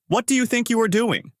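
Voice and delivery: high-pitched, indignant question; indignant challenge. A narrator's reading. Takashi strikes back at the teacher, indignant. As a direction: challenge them, pitched well up throughout.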